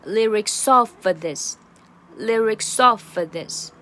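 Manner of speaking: slow "lyrics of this", run together with a schwa before "this"; linked, reduced "of". Shown as a demonstration. Teacher demonstrating "lyrics of this" with schwa, slow. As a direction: link "lyrics" to "of", weaken the end to "uh". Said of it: "把of整个弱化成schwa".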